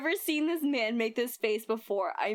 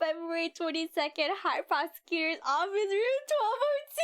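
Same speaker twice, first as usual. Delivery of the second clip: big, rising up high on the room number; hammed-up announcement; 6 semitones higher than usual. Streamer announcing the new scene, hammed up. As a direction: announce it like a game intro title. Reading the game's location card.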